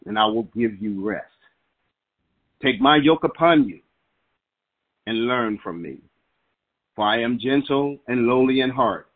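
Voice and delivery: rising preacher's declaration, big peaks on key lines; scripture declaration. Acted. Pastor declaring scripture over his phone congregation, fervent preaching. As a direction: proclaim each promise with building fervor.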